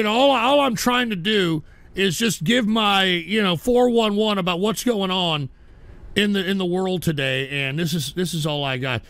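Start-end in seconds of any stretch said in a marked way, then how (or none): 6.1-9.0 lower, resigned delivery; subdued resignation; defeated. Real, not acted. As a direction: let it sag, giving up. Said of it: "I don't sound defeated".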